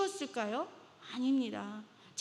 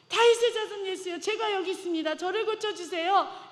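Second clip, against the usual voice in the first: high, loud prayer cried out; wailing plea; 5 semitones higher, 5 dB louder than usual. Acted. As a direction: cry out desperately to be healed. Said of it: "울부짖는 그 음성".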